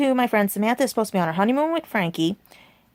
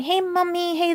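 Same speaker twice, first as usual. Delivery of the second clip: caller's fake Spanish accent slipping into British, "mommy" said like "mummy"; "mommy" sounds like British "mummy", with a slipping fake Spanish accent; 9 semitones higher, slower than usual. Mocking the prank caller's fake Spanish accent as it slips into British. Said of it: "falling out of the Spanish accent".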